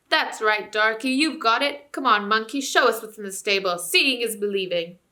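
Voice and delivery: loud, cheeky dwarf voice; heckling dwarf. Acted. Dwarf heckling the ape, loud and cheeky.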